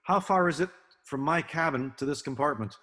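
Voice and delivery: put-on English-accented question, pitched slightly up; imitated English accent. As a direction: quote him with a hint of an English accent. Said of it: "he said with his English accent".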